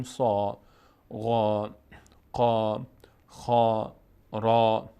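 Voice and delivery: سا غا قا خا را said heavy, mouth opened upward on the آ; full-mouth heavy letters. Shown as a demonstration. Quran teacher showing students the heavy letters, full-mouth sound. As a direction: demo the heavy آ on سا غا قا خا را.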